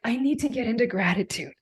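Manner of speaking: reliving the sobbing of despair; retold sobbing. Telling herself to be grateful while reliving her sobbing. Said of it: "I was sobbing".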